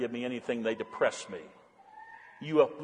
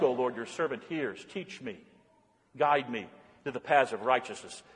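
quiet prayer; 3 dB quieter than usual. Acted. Pastor showing a daily prayer, soft and humble.

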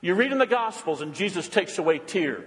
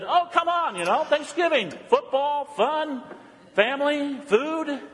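mock enthusiasm; 8 semitones higher than usual. Retelling his chat with cashier.

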